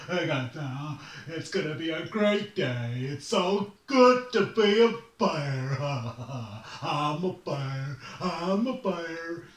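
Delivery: bubbly, laughing sunny-morning bear; cheery bear voice. Acted. Bear greeting the morning, giddy and laughing. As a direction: chirp it like nothing could go wrong. Bear skipping through grass.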